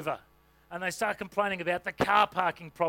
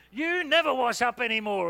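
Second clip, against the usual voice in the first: louder complaining jab; accusing nag; 3 semitones higher, 5 dB louder than usual. Retold or imitated. A spouse griping about the dishes, louder and accusing. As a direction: whine it like a fed-up spouse. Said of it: "don't say always or never".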